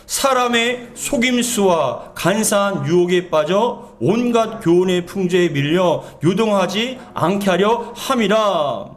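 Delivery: slow, measured Bible reading; scripture reading. Acted. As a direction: read the verse out slowly, drawing out phrases. Reads Scripture aloud to congregation. (천천히 또박또박 성경 봉독)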